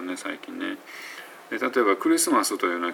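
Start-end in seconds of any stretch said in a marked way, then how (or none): 2.0-2.6 クリスマス in five flat even beats, ku-ri-su-ma-su; five-beat katakana Christmas. Shown as a demonstration. Teacher showing the Japanese way to say クリスマス. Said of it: "クリスマスというと五回".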